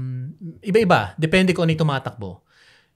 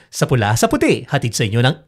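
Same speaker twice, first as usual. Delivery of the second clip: announcer voice demo; 2 semitones lower, 4 dB louder than usual. Shown as a demonstration. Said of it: "Sample nga".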